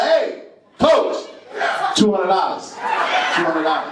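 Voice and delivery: high, pushy call to the coach; mock sideline plea to coach; pleading yell at coach. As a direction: remind the coach what you paid. Parent yelling at coach.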